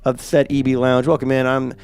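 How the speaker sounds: hoarse, rough from a sinus infection; croaky sick voice, real rasp; raspy sinus voice. Real, not acted. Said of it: "If I sound like I've been smoking".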